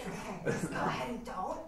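soft hoarse deadpan; dry croak, voice gone; lost voice. Acted. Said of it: "I lost my voice".

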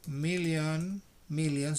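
"million" ending in n, no s sound; million without s. Shown as a demonstration. Teacher to class: "million" said without an s. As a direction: say "million" with no final s. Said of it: "sin ese".

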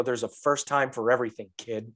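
low, deadpan and grave; deadpan serious. Retold or imitated. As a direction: say it with a dead serious face. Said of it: "I just got a serious face".

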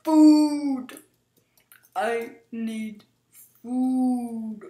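loud, desperate cry for food; desperate shout. Real, not acted. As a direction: yell it out, starving.

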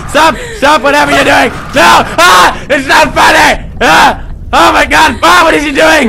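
high frantic shouting with laughs; panicked laughing screams. Real, not acted.

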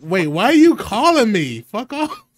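high, loud panicked yell; startled shout. Real, not acted. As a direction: shout it in alarm. Startled by incoming call.

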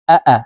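"আ, আ" as two quick, short syllables; quick short vowels. Shown as a demonstration. Teacher showing learners short vowels, "আ, আ" said quickly. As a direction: say "আ, আ" quickly, without stretching either vowel. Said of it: "তাড়াতাড়ি করে উচ্চারণ করতে হবে".

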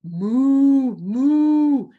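loud, drawn-out rising moo; cow moo. A narrator's reading. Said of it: "said the cow".

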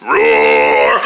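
low growling roar; monster roar. Acted. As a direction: roar like a wild beast. Creature roaring.

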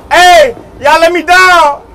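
drawn-out, high frightened begging; terrified long call to be let down; slow desperate plea. Real, not acted. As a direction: stretch out the plea in fear. Pleading slowly on ride.

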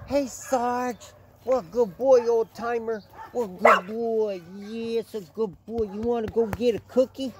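high sing-song praise for the dog; high, doting pet voice. Real, not acted. Talking sweetly to the dog.

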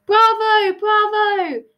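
high, delighted applause; delighted cheer. A narrator's reading. Alice applauds the Hatter's song, delighted. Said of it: "Alice clapped delightfully".

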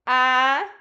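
"Aranha" split into separate syllables with long pauses. Shown as a demonstration. Teacher shows pupils how aranha is written, syllable by syllable. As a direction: sound out "Aranha" one held syllable at a time. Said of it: "Olha lá como que escreve aranha".

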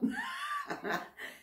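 bursts into a high, helpless giggle; can't hold back a squeaky laugh at the mistake; embarrassed giggle. Real, not acted. Laughing at her own slip.

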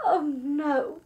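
drawn-out mock moan; loud, woeful groan; moaning dismay. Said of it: "we moaned".

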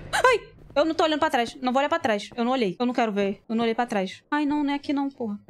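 high, rattled, scared gamer voice; panicking while running away; scared horror game streamer. Real, not acted. Fleeing a chaser in horror game.

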